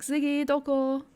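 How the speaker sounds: a light cat-calling lilt on "Ziggy, doko". Retold or imitated. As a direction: call out for the cat by name. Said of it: "So it's more like".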